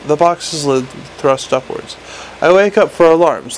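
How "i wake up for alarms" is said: mild imp shriek. Acted. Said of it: "the imp shrieked".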